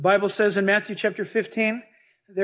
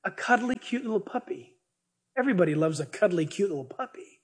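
softer, cooing puppy talk; doting on puppies; 4 dB quieter than usual. Retold or imitated. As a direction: coo over a cute little puppy.

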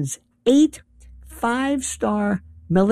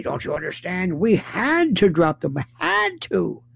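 mock insistence. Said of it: "And people will say".

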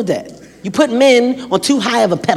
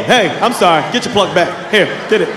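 scared pleading; 2 semitones lower than usual. Retold or imitated. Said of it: "Yeah, I was scared".

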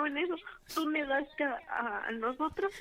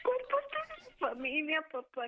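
indignant disbelief; 3 semitones higher, slower than usual. Acted. Daughter refuses stepbrother.

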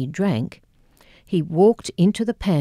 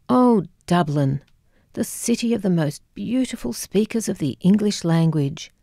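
gentle Scottish lilt, fond and dreamy; a light Scottish mother musing fondly on Dublin; soft Scottish brogue. Retold or imitated. Mother on the phone, fondly recalling Dublin, in a soft Scottish brogue. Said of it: "she said in her own soft Scottish brogue".

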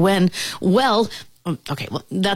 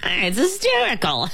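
words through an acted giggle, higher; laughing fly; 4 semitones higher than usual. A narrator's reading. Fly tickled by the moth act, laughing. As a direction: laugh while speaking. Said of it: "The fly began to laugh".

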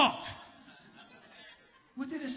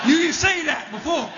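indignant; 5 semitones higher than usual. Retold or imitated. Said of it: "angry at Anthony".

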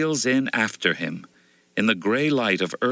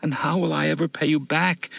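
a mild groaning plea, pitched high; lightly voiced sick widow, groaning; poor widow asking the woodseller, mild groan; 6 semitones higher than usual. A narrator's reading. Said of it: "asks the poor woman, groaning".

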